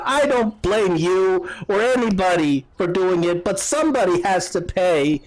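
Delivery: lightly voiced, high protest; blurting out. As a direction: blurt it as an upset mother. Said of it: "she kinda blurts out".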